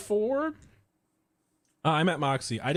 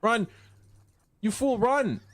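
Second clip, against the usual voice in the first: urgent high shouts to flee; panicked yelling; 6 semitones higher, slower than usual. Real, not acted. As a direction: scream at him to run. Yelling at doomed character.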